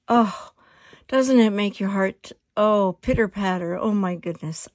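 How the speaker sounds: loud, delighted gush over colors; excited gushing. Real, not acted. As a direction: gush with real delight, loudly. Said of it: "what really excites me".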